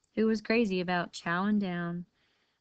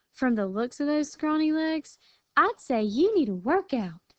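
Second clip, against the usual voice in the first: cheeky teasing; 6 semitones higher, 3 dB louder than usual. Acted. Lily teasing coyote.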